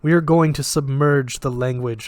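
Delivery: put-on flat, lightly Russian-accented voice; detached, with a hint of Russian; slight Russian accent. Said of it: "slight Russian accent".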